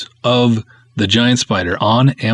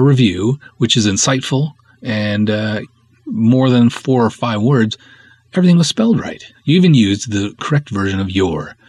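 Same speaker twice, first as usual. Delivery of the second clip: sarcastic thanks to a reviewer; dry, mocking praise; snarky. Real, not acted. Filmmaker sarcastically thanking a reviewer who spelled things right. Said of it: "I'll stop being snarky".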